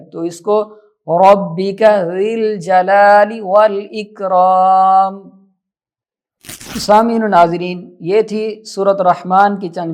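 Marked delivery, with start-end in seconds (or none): 1.1-5.3 "ज़िल" with an i, in slow tajweed; i vowel in recitation. Shown as a demonstration. Teacher showing the correct reading, slow recitation. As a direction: recite slowly, "ज़िल" as zil, never zul. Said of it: "ज़ाल के नीचे ज़ेर है".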